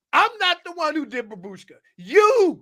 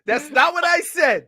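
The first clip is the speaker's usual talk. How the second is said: shouting; 4 semitones higher than usual. Real, not acted. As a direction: raise your voice, protesting. Heated argument, shouting back.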